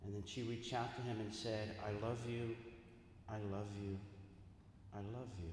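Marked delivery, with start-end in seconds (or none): 1.8-5.5 fading, softer with each repeat; tender farewell. Retold or imitated. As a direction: whisper goodbye to him, softer each time. Widow at husband's casket.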